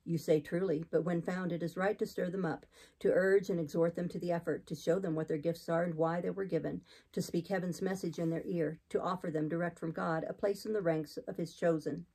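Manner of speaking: lightly voiced preacher, low and controlled; hint of an austere clergyman; exhorting missionary. Voices Saint John.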